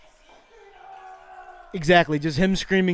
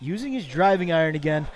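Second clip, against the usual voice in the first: hushed golf commentary. Acted. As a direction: murmur the play-by-play so as not to disturb the golfer.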